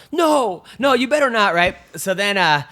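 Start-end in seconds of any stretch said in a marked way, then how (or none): 0.1-1.5 high-pitched imitation of an objecting girlfriend; mock protest. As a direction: blurt a high, sharp mock refusal.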